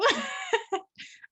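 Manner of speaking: giddy squealing laugh. Real, not acted. Gushing over her guest.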